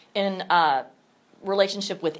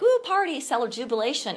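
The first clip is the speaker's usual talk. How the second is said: high squealy mock celebration; mock party excitement; 5 semitones higher than usual. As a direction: make fun of party cheer. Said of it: "It's not like".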